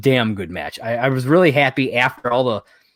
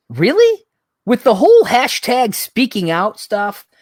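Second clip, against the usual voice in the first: disbelief pitched up high, spelling out the bad idea; incredulous rant; 4 semitones higher than usual. Recapping the creepy shower scene to a friend, incredulous and scolding. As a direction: scold the bookers like they can't be serious.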